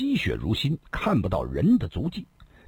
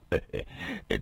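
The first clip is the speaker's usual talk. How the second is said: laugh; 11 semitones lower, 7 dB quieter than usual. A narrator's reading. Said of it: "不禁失声地笑道".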